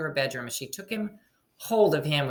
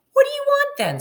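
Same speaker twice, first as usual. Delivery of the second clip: high breathy whispered question; 10 dB louder than usual. Acted. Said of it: "said the princess".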